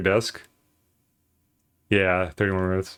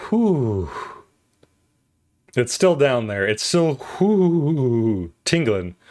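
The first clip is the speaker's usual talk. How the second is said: mouth burning; much slower than usual. Real, not acted. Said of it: "still tingling".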